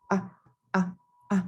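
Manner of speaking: "ah" quick and light, neutral tone; short, light, unstressed "ah". Shown as a demonstration. Teacher showing the neutral tone, quick and light "ah". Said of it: "it's quick and light".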